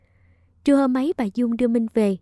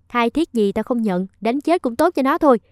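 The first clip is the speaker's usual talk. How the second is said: grumpy scowl; 3 dB louder than usual. Acted. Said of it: "Bà Dung cau có".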